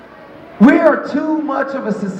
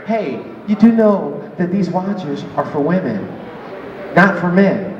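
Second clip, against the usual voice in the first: condescending clerk; 4 semitones lower than usual. Retold or imitated. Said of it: "had the audacity to say to me".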